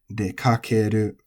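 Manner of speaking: dekakeru level, with no pitch drop; flat accent. Shown as a demonstration. Teacher demonstrating an exception among compound verbs, flat dekakeru. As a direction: say dekakeru unaccented to the end. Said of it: "it's flat".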